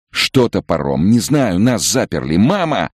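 put-on high, urgent boy's cry; demanding shout. A narrator's reading. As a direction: shout for mother, insisting. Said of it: "закричал Сева неожиданно требовательно".

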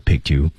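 "picked you" said as one joined word; linked picked you. Shown as a demonstration. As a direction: run "picked" straight into "you". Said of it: "连读".

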